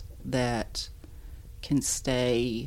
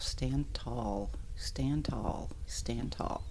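whispered to self; 6 dB quieter, much slower than usual. Retold or imitated. Repeating father's advice to herself.

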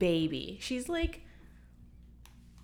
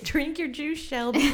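quoting the movie; 7 semitones higher, 4 dB louder than usual. Retold or imitated. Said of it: "That's my favorite".

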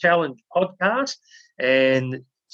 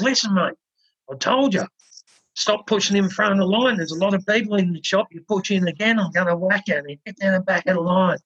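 raised, higher warning to a queue jumper; a firmer, higher-pitched threat; threatening shopkeeper; 4 semitones higher than usual. Retold or imitated. Shopkeeper Kevin warning James off pushing in, raised and stern.

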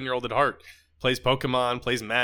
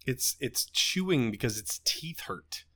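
whisper; 3 semitones lower, 7 dB quieter, slower than usual. Real, not acted. Explaining kitten teething.

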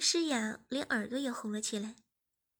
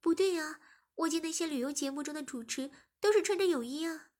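a hint of a puzzled girl, higher; lightly voiced young woman; 4 semitones higher than usual. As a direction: question him, mildly doubtful. (略带疑惑的少女声)

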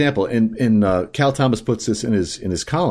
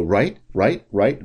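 1 mock NPR right; slower than usual. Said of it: "they'll say something and they go".

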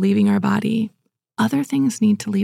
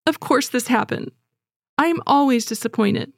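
raised, sulky complaint; self-pitying whine; 5 semitones higher than usual. Pretend. Preacher voicing self-pity to the congregation, a raised whine. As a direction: whine as if nothing ever goes right. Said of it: "what self-pity or unrighteous anger might sound like".

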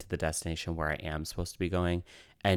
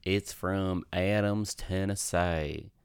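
put-on Southern accent try; slower than usual. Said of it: "is that a good Southern accent?".

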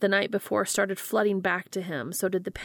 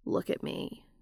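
firm; 4 dB quieter than usual. A narrator's reading. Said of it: "more firmly this time".

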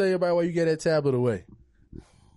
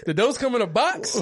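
mocking question; 9 semitones higher, 3 dB louder, slower than usual. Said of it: "They're like".

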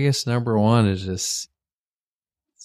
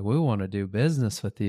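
lightly imitated Amish dialect, a little softer; Amish accent; 4 dB quieter, faster than usual. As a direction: quote the Amish folk with their accent. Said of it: "talk to the Amish folk with their dialect".

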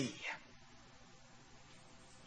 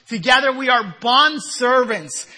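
ordinary talk, nothing marked

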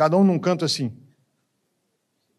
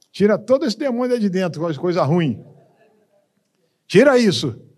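casting out a demon; 3 semitones higher than usual. Retold or imitated.

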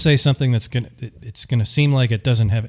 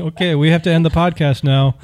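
laughing; 6 semitones higher than usual. Real, not acted. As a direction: shout it through laughter. Laughing fit.

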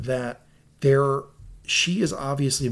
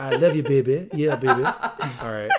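wrestler promo voice. Pretend. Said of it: "Now you're Dusty Rhodes".

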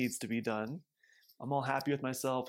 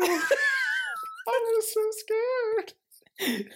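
laughing; 6 dB louder, much slower than usual. Real, not acted. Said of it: "laughing and crying".

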